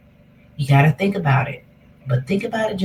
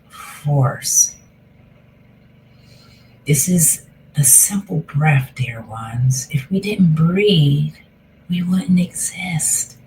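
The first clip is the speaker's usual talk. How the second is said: guided meditation. Acted. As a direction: ease them into the breath gently.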